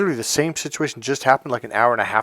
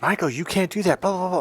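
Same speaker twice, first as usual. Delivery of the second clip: mild mock yell; 8 semitones higher than usual. She yelled at me about her country, mild mock yell. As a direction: imitate someone yelling, pitched up only. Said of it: "she kinda yelled at me".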